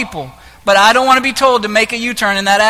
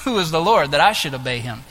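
lower, scornful royal challenge; Pharaoh; 7 semitones lower, 4 dB quieter than usual. Acted. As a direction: lightly play a proud ruler dismissing God. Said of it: "Here's what Pharaoh said".

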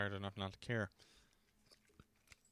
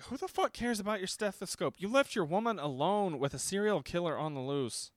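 higher, exasperated telling-off; mock indignant scolding; 6 semitones higher than usual. Scolding a movie character over his stethoscope, indignant. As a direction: scold in disbelief.

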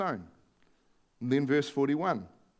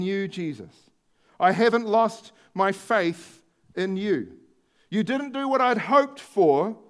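Martha's plea; 3 semitones higher, 3 dB louder, slower than usual. Acted. Preacher voicing Martha's faith.

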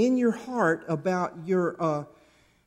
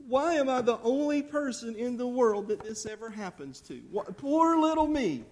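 mildly mocking poor-me lament; lightly acted self-pity, pitch lifted; 4 semitones higher than usual. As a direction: play up the pity party a little. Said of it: "he has this little pity party".

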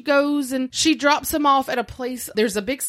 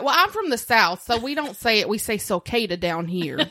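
put-on Southern drawl. To the museum guy, playing up her Southern accent. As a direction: lay on the Southern accent a bit, a smart remark. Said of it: "Like, I really put on that".

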